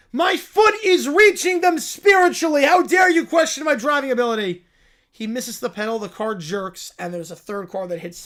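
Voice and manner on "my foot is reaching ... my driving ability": a cub thrilled by the news; excited little bear. Acted. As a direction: squeal it like an overjoyed cub. Bear defensive shouting.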